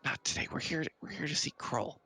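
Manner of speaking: a hint of a kid calming a big friend; slightly high kid voice; little kid. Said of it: "And the little kid goes".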